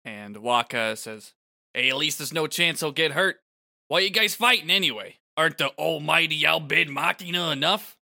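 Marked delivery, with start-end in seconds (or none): 1.7-8.0 stank on it. Acted. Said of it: "he does put some stank on it".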